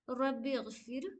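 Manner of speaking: slow recitation with a full-mouthed heavy रा; Quranic recitation demo. Shown as a demonstration. Teacher modelling the verse for students, slow and heavy. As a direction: read रब्बी गफिर slowly, रा full-mouthed and thick. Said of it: "रा को थोड़ा मुंह भर के पढ़िए".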